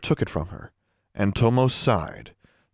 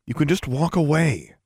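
higher, mildly coaxing; softer appeal; 6 semitones higher than usual. A narrator's reading. Alexandra urges Tomo to leave the society, softly. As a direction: ease off into gentle persuasion. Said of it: "She spoke more softly".

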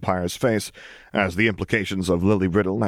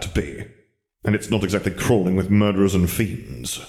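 Wizard Lennon. Acted. Wizard Lennon reassuring Lily about Hogwarts, measured. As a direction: patiently correct her.

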